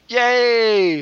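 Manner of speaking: high, drawn-out yay; cheering. Real, not acted. Host reacting to go-kart racing plans, high cheer.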